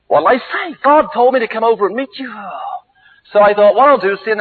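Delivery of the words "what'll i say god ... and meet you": mock protest. Reluctant preacher pleads with God.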